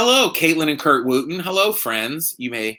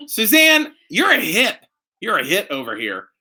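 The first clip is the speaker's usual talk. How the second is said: calling out; 7 semitones higher than usual. Real, not acted. Calling to laughing wife.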